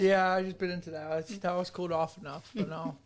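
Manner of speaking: talking through a burnt mouth; words around hot food; mouth full of hot food. Real, not acted. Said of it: "my lips are on fire".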